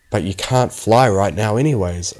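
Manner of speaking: plain reading voice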